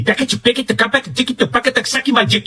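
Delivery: sílabas sem sentido, agudas e mais baixas; algaravia debochada. Retold or imitated. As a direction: imite uma ladainha sem sentido, em voz aguda. Paródia de pregador com sílabas sem sentido. (algaravia aguda em tom de zombaria)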